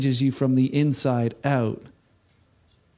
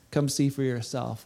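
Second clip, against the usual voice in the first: much softer, lower come see for yourself; softer echo; 3 semitones lower, 6 dB quieter than usual. Acted. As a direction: let "Come see for yourself" fade almost to a hush. Repeated invitation, softer.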